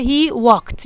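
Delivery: slow "he walked" with a final t sound; pronunciation demo. Shown as a demonstration. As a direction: say "he walked" slowly, ending on a t.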